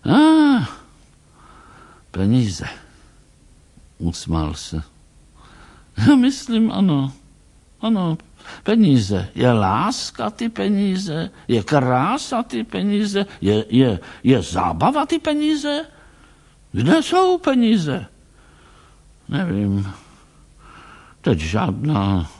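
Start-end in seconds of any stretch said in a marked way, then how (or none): 0.1-0.7 a sudden sharp high yelp; sudden high cry. Acted. Surprised old man yelps before naming money. 6.0-18.1 put-on high, quavering questioning old man. Old doctor quizzes Tracy about money, high and fussy.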